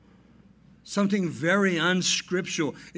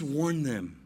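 solemn rendering; 3 semitones lower, slower than usual. Shown as a demonstration. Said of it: "The Greek says".

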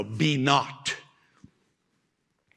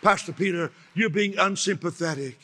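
mock sympathy-seeker. Congregant complains to Pastor Peter, hammed-up moaning. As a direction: moan like someone wanting pity. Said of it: "You say".

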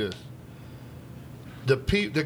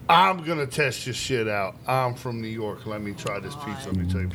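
mock cocky New Yorker; 6 semitones lower than usual. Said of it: "people that come in here and say".

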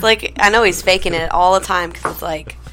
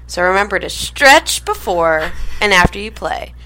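ad read. Real, not acted. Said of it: "Katie, read us this ad".

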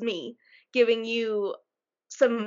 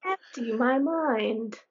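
slow meditative echo; much slower than usual. Pretend. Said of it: "Empty your mind".

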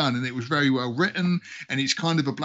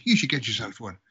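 lightly done Irish brogue; Irish accent; 3 semitones lower than usual. Acted. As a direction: advise a mate in a mild Irish accent. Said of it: "the Irish was the thick guy".

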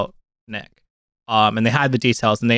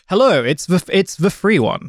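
higher-pitched put-on broadcaster voice; Melvin Bragg; 7 semitones higher than usual. Podcaster trying out a silly intro voice, Melvin Bragg impression. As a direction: attempt a famous broadcaster's style, pitched up. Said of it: "Melvin Bragg style".

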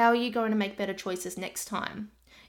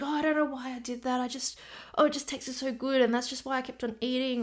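victim mindset; 4 semitones higher than usual. Retold or imitated. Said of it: "victim mindset of".

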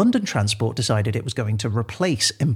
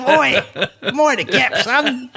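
high, loud heckle with a laugh; rowdy mock shout; 10 semitones higher, 4 dB louder, slower than usual. Co-host spoofing the announcer to a passenger, rowdy shout. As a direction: holler it like a cheeky telling-off.

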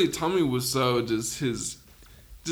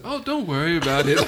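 loud, laughing, higher movie line; laughing mock quote; 4 semitones higher, 5 dB louder than usual. Friends mocking a movie line, laughing loud. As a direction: giggle through the mock quote.

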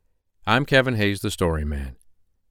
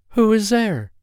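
put-on old grandmother voice; 13 semitones higher, 4 dB louder than usual.

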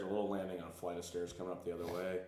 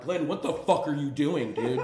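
higher, louder, laughing as he asks; laughing disbelief; 6 semitones higher, 8 dB louder than usual. Retold or imitated. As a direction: ask it cracking up in disbelief. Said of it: "I'm like".

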